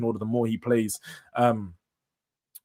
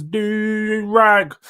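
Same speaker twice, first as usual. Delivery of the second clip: higher, louder put-on voice; a quick mock impression of a mate; imitating Jun; 6 semitones higher, 6 dB louder than usual. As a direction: toss off Jun's line in his voice. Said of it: "He says".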